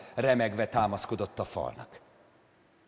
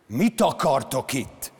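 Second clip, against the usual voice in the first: yelled; 2 semitones higher, 4 dB louder, slower than usual. Acted. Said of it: "üvöltötte".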